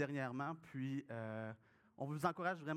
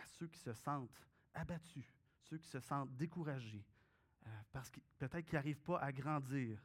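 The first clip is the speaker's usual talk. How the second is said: prayer; 2 semitones lower than usual. Acted. Pastor prays aloud before reading.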